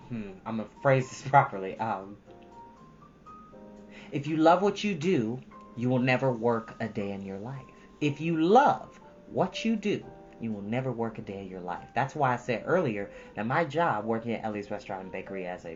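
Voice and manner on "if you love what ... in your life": normal talking voice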